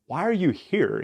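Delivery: high-pitched, mildly exasperated question. Retold or imitated. God answering Elijah's complaint, mildly exasperated. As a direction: question him like an impatient God.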